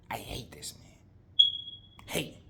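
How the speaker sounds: low, near-whispered loathing; hateful muttering. Acted. Haman venting hatred to his wife.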